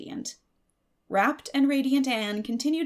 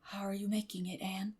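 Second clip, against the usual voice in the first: hushed, secretive whisper; 8 dB quieter than usual. A narrator's reading. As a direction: keep it down so no one hears. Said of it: "as if afraid of being overheard".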